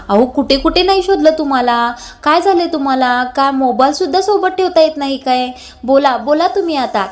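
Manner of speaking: mildly exasperated scolding; irritated. Acted. Parth demanding an explanation from Kavya, mildly irritated. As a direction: press for an answer with some irritation. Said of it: "तुम्हाला एवढं चिडायला काय झालंय".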